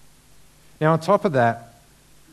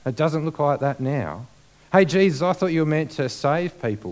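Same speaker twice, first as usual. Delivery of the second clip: mocking taunt; 4 semitones higher, 3 dB louder than usual. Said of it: "they're saying".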